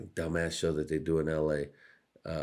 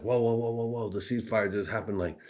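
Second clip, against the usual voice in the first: higher alarmed whoa; mock alarm; 5 semitones higher than usual. Everyone mocking the broken ceasefire, alarmed. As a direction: call out shocked. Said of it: "everyone was like".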